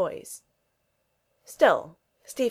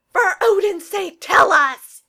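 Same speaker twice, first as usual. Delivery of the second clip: much higher and louder, slow and forceful; booming demand; 13 semitones higher, 12 dB louder, slower than usual. A narrator's reading. Thor demanding the news from the receiver, booming. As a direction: roar it like an impatient god.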